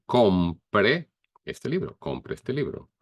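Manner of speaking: teacher models compre este libro for students; formal command demo. Shown as a demonstration. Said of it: "you can say".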